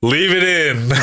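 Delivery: Andrew Santino. Acted. Co-host quoting a comedian's catchphrase, lightly imitated. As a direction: toss out the catchphrase a bit high. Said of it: "As Andrew Santino would say".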